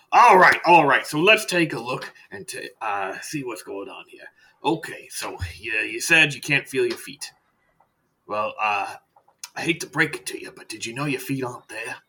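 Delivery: lightly voiced chatty doctor, loud start; breezy doctor. Doctor to patient who can't feel his feet, breezy. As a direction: open brightly, then ease into the bad news.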